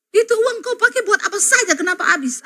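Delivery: high, half-laughing imitation of an angry husband; mock angry husband. Wife retells how her husband scolded her, mock angry and laughing. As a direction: huff it out like a grumbling husband.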